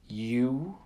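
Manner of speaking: breathy mocking whisper; haunting whispered scorn; scornful whisper. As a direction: sneer it under your breath. The ship's mocking reply.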